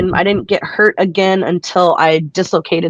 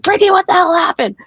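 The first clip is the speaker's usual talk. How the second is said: higher, alarmed mom voice; shocked mom; 11 semitones higher, 3 dB louder, faster than usual. Retold or imitated. Mom spotting her daughter's taped hand at intermission, higher and alarmed. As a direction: play an overdramatic mom seeing the taped hand. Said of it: "and she's like".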